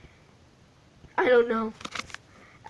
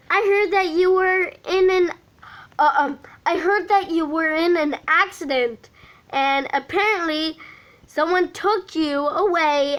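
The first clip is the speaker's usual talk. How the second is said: quick, higher friend voice; Jack's voice; 5 semitones higher than usual. Acted. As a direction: rush it out like Jack. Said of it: "Jack's voice".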